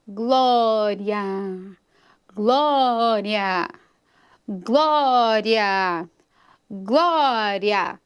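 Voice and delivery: slow, drawn-out "glória" four times, falling; repeated word demo. Shown as a demonstration. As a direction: stretch each "glória" evenly, with a pause between. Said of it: "a palavra glória vai se repetir". ("glória" alongado e repetido, pausadamente)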